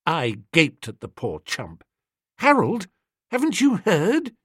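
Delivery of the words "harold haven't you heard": incredulous. A narrator's reading. Bertie breaks bad news.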